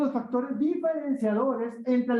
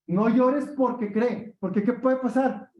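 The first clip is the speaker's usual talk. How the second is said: mock frightened parent; 3 semitones higher than usual. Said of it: "qué creen que les decían papá y mamá".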